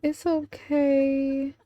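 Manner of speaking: slow, cooing sympathy; tender consoling. Real, not acted. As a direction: soothe a crying little one. Comforts the crying Sim.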